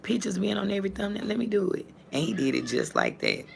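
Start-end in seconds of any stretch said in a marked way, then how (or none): 0.0-1.9 put-on whispered, fast child request; lightly voiced eager son; son asking. Son asking mom for the thumbnail, whispered. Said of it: "He said".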